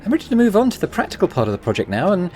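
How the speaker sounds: lightly voiced Eastern European accent. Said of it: "doing a Russian accent for this guy".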